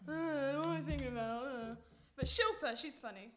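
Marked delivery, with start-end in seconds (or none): 0.1-1.8 vacant housemates. Retold or imitated. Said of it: "they all just sit there like".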